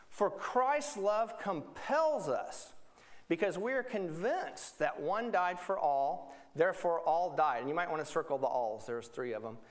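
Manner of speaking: slow, deliberate Bible reading; scripture reading. Acted. Pastor reading Corinthians slowly to the congregation. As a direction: read each phrase slowly for the church.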